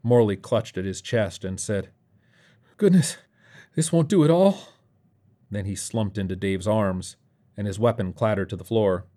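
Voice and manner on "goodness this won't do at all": high-pitched, fussy dismay; wounded dismay. Acted. Morley clutches his chest, high and dismayed. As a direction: gasp out prim surprise at a high pitch.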